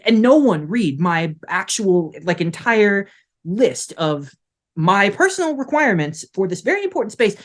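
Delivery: irritated rant. Acted. Doctor ranting about ignored list.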